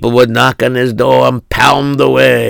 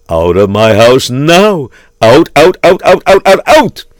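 chasing people out; 3 semitones higher, 3 dB louder than usual. Acted. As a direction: drive them out in rapid repeated shouts. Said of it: "he would chase everybody out".

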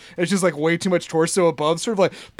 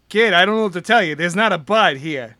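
lightly voiced coach, halting in places; big coach accent. Guard puzzled about Bud, light coach accent. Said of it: "to do the accent".

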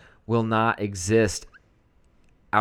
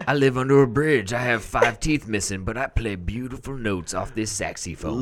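Bleeding Gums Murphy. Retold or imitated. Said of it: "Bleeding Gums Murphy".

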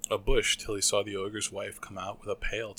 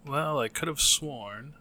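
higher, louder baffled ogre; puzzled ogre mutter; 5 semitones higher, 8 dB louder than usual. A narrator's reading. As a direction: grumble it in disbelief. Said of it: "he would mutter".

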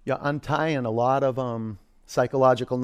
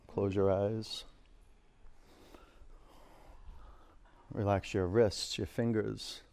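soft, close relaxation guidance; right in your ear; 7 dB quieter than usual. Acted. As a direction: murmur it gently, right in their ear. Soft guided relaxation cues.

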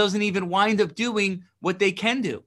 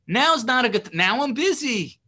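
much higher and louder brush-off; mock excuse; 5 semitones higher, 5 dB louder than usual. Mimicking someone dodging the work, high and loud. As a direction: brush the task off loudly, high-pitched. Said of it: "right, they say".

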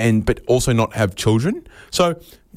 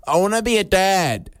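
lightly voiced eager kid, pitched up; a higher kid's answer with a falling end; child's answer; 6 semitones higher than usual. Kid telling school visitor their life ambition, lightly voiced child.

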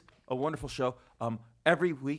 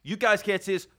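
announcer intro; 4 semitones higher, 4 dB louder than usual. Acted. Introducing a guest host.

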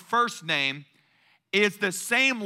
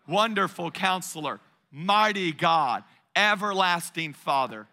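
congregation recitation. Shown as a demonstration. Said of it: "say it with me".

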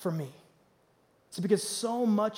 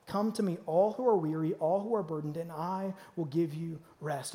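soft invitation; 3 semitones lower, 4 dB quieter than usual. Retold or imitated. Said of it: "Jesus gave us one simple step".

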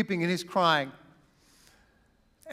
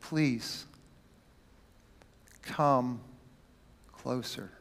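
soft, low, tender plea; gentle whisper; 5 semitones lower, 5 dB quieter, much slower than usual. Acted. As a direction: coax them near, barely audible. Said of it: "getting down to a whisper".

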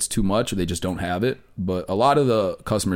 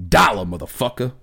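mock yell; 3 semitones higher, 4 dB louder than usual. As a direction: act out the customer's aggressive punchline, higher at the start. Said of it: "he yelled it at me too".

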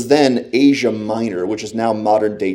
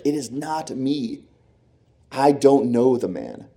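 emphatic denial; 2 semitones higher, slower than usual. Retold or imitated.

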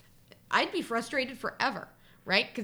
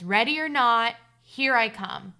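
mild hide-and-seek call; 7 dB louder, slower than usual. A narrator's reading. Seeker to hidden brother and cousin, mildly calling out. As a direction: call it out lightly, as narrated dialogue.

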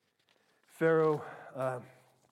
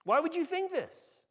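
higher, exasperated why-would-you; incredulous disbelief; 7 semitones higher than usual. Retold or imitated. Preacher reacting to the Hebrews' trust in Pharaoh, incredulous. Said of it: "I read this and go".

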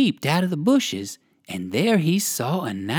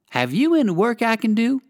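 polite; 7 semitones higher than usual. A narrator's reading. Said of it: "asked Uncle Wiggily politely".

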